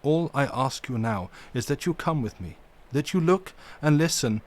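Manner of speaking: mildly stern, firm and deliberate; a touch of stern gravity in the old professor; grave and stern. Acted. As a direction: hold your ground with dignity. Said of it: "said gravely and sternly".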